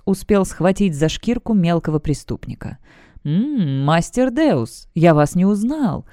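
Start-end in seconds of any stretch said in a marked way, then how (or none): 3.2-6.1 frightened stammer. Acted. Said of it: "Чёрт испуганно зажмурился".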